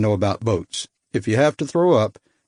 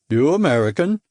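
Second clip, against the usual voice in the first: put-on Baltic accent; 3 semitones higher than usual. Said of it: "His accent was hard to place".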